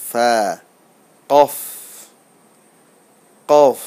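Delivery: separate, held "সিন, শিন, সদ"; Arabic letter pronunciation. Shown as a demonstration. Teacher leading learners who read along, deliberate recitation of "সদ, দোয়াদ, কফ". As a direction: sound out "খ" to "কফ" firmly with pauses. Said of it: "আপনারা আমার সাথে পড়ুন".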